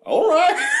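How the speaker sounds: very high, loud squeaked all right; squeaky resigned okay. Retold or imitated. Sister squeaking a resigned okay, very high and loud.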